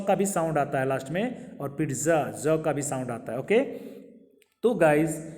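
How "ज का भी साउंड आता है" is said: usual speaking voice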